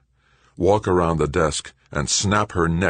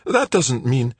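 high, indignant bluster; 8 semitones higher, 3 dB louder than usual. A narrator's reading. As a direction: bluster and get cut off. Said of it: "Joanna blustered".

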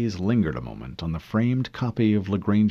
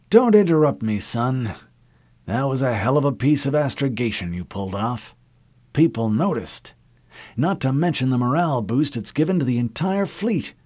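put-on high, firm old admiral; commanding old admiral; 5 semitones higher, 3 dB louder than usual. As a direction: cut him off, then praise.

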